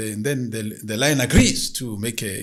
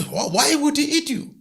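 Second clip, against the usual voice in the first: puzzled spirit; 6 dB louder than usual. Acted. Spirit asks the woman.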